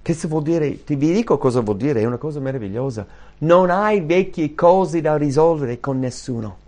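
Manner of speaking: ordinary talk, nothing marked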